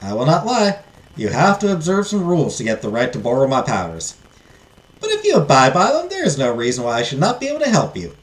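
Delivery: put-on fairy godmother explaining in a Southern accent; lilting Southern-accented fairy. Fairy warning the heiress it will not be easy, Southern accent. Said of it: "give her a southern accent".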